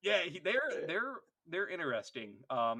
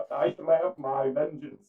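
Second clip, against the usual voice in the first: loud, slow vow of revenge; pompous dreadnought warrior; 7 dB louder than usual. Acted. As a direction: declare vengeance in a hammy war-machine voice.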